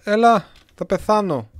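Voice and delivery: high, loud, slow panicked plea; mock panic about dying; desperate cry. Real, not acted.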